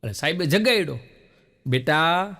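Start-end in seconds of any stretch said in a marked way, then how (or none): 1.7-2.3 lovingly. Retold or imitated. Teacher wakes a dozing pupil, gently loving. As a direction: coax the sleeping boy kindly. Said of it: "પ્રેમથી પહેલા બોલ્યા".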